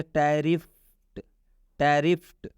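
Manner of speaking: टैरिफ्ड drawn out, ending in T, "tarift". Shown as a demonstration. Teacher shows learners how to read it, टैरिफ्ड with a T ending. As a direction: say टैरिफ्ड with ट for the final ड. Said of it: "तो इसको क्या पढ़ेंगे".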